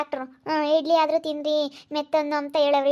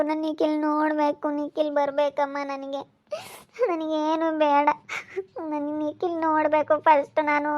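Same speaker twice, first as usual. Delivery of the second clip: crying plea; slower than usual. Acted. Daughter refusing food until Nikhil comes, slow and crying. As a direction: sob out the wish to see him. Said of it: "ಸುಮ್ಕಿರಮ್ಮ, ಅಳ್ಬೇಡ".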